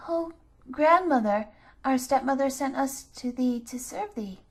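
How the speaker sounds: put-on timid children politely greeting the witch. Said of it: "they said very politely".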